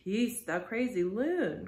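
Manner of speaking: put-on mild cry to silence the boy. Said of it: "cried the Manxman".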